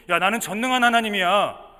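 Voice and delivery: loud, emphatic divine declaration; voice of God. Acted. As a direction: declare the promise with mounting force. God appears and asserts his promise.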